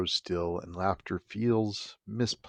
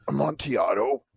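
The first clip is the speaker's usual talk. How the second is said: lightly voiced tipsy Fortunato; 5 semitones higher than usual. Fortunato repeats name.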